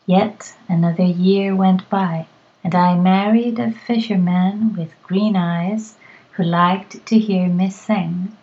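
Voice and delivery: measured storybook reading, each line rounded off; story narration. A narrator's reading. Teacher reading a tale aloud to her students, storytelling voice. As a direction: tell the tale to the class at a steady pace.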